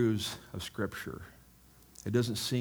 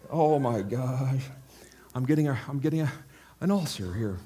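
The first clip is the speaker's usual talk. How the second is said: worried bird; 3 semitones higher, 4 dB louder than usual. Acted. Preacher acts a worried bird pacing its nest, mock panic. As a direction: drag out the worry like an ulcer's coming. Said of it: "that's a worried bird".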